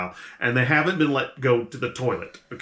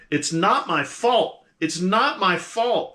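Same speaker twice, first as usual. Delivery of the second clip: higher, slower, louder panicked pleading; getting louder; 8 semitones higher, 3 dB louder, slower than usual. Acted. Captive woman growing frantic as the player tries to hush her. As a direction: her panic rising as she repeats it. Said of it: "she starts getting louder".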